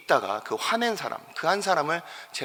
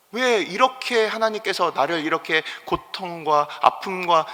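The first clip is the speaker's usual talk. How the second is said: plaintive complaint; 3 semitones higher than usual. Retold or imitated. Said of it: "이런 생각을 한 번이라도".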